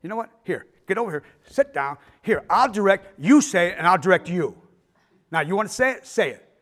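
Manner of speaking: loud, challenging actor turning the tables; retold angry outburst. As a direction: fire it back at the young director, loud and fed up. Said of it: "And John said".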